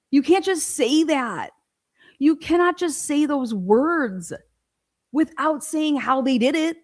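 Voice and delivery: slow, high, emphatic objection; exasperated protest. Real, not acted. Protesting the unexplained ruling.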